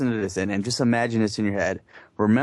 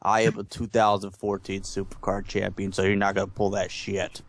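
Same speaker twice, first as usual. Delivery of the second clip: imitating Phil. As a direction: brag like a cocky champ. Voicing Phil boasting.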